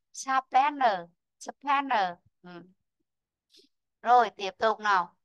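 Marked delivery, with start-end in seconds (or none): 0.1-2.1 "sharp panel" twice, SHARP stressed, falling away; stress on first syllable. Shown as a demonstration. Teacher models stress position, first syllable stressed. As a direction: hit "sharp" and let "panel" drop. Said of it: "Rơi vào vị trí thứ nhất nhá".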